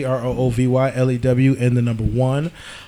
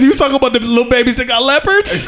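laughing mispronunciation; 8 semitones higher than usual. Retold or imitated. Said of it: "And you said".

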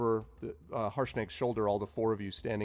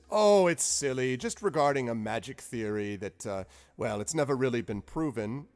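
breezy wizard dismissal; 2 semitones higher, 5 dB louder than usual. Acted. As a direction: brush it off. Zephyros dismissing worry.

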